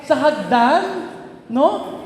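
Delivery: high, bubbling with laughter; giddy delight. Retold or imitated. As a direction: gush like a kid on a new ride. Therese delighted by the elevator.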